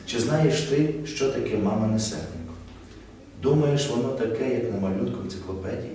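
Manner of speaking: mock story reading, each phrase dropping away; imitated halting reading. Coach mimics the student reading the tale, stopping after each sentence. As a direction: let every question sink and stop. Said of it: "Ви чуть-чуть зупиняєтесь".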